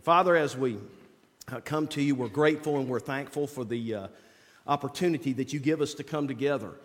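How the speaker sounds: prayer voice. Acted. Leads an opening prayer.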